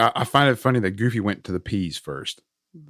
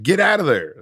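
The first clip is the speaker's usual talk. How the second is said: higher, louder warning shout; yelling at the screen; 8 semitones higher, 6 dB louder than usual. Retold or imitated. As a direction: call out to the girl on screen. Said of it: "you wanna start yelling at the screen".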